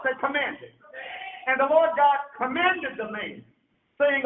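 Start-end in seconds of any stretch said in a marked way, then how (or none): 0.0-0.7 loud group repeat; congregation repeating loudly. Shown as a demonstration. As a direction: say it loud, call and response. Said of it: "Say it loud".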